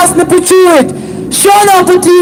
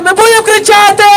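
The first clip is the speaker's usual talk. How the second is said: raised, fast defiant shout; rally them with it; rousing cry; 3 semitones higher, faster than usual. Real, not acted. Speaker rouses protesters, fast defiant shout.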